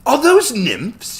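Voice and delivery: slow, very high, loud cry of wonder; excited cry. A narrator's reading. Samuel spots the nymphs at the spring, excited cry. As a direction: cry out in disbelief, stretching it. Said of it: "he cried".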